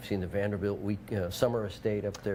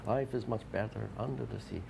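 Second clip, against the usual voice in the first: put-on light Jamaican accent, softer; sing-song Jamaican accent line; 6 dB quieter than usual. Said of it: "we do the Jamaican accent".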